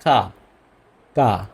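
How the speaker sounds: German letter name কা, an open 'kaa'. Shown as a demonstration. Teacher telling learners how Germans name K, কা as 'kaa'. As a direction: say কা as 'kaa', not 'kay'. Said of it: "কে কে বলবো".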